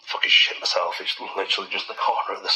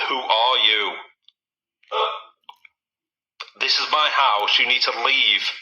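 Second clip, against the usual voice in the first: calling out; 4 semitones higher, slower than usual. Real, not acted. Ordering the ghost out.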